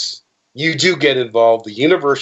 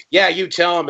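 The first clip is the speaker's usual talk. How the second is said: cheering women; 7 semitones higher than usual. Retold or imitated. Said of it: "the women are like".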